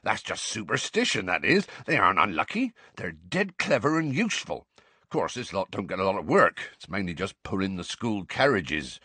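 rustic gamekeeper addressing his class; hearty, informal teacher with a country lilt; lightly voiced Hagrid, genial gamekeeper.

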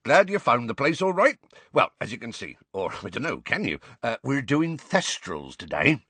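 rustic gamekeeper addressing his class; hearty, informal teacher with a country lilt; lightly voiced Hagrid, genial gamekeeper.

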